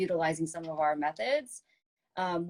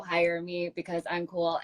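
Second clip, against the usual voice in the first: robot voice. Retold or imitated. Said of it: "reading it like a robot".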